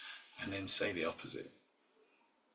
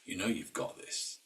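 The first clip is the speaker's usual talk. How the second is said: encouraging voice; 4 dB quieter than usual. Retold or imitated. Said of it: "imagine a voice of somebody".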